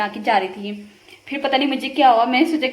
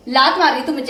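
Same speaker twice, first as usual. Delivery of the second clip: scolding; 5 dB louder than usual. Real, not acted. Mock quarrel with kicking child.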